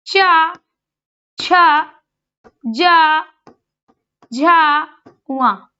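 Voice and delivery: चा छ जा झा वा each syllable said separately and clearly; sounding out letters. Shown as a demonstration. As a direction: sound out the cha row one by one. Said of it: "चा वर्ग को देख लीजिए". (छात्रों को च वर्ग का उच्चारण)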